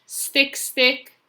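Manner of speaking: high, loud, separate sticks; storybook sound words. Acted. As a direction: pop each stick up high and firm. Storybook noise words acted out.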